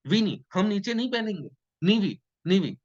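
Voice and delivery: put-on a toddler bargaining, playful; child's reply. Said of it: "कहता है".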